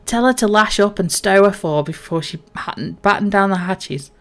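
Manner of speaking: a salty captain who's had a few; drunk sea captain. Acted. Captain gives the crew orders, slurring like a drunk. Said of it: "I don't mean to make him sounded more drunk".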